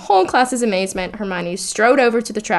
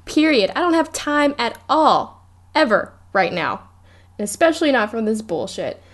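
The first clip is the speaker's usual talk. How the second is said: fed-up Hermione; 3 semitones higher than usual. Retold or imitated. Retelling Hermione storming off, in a raised fed-up rant. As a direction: lay down the law, done with it. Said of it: "she's just like".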